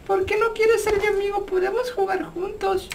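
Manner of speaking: lightly faked creepy child; put-on little kid asking to be friends; fake kid voice. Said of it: "Esto da miedo".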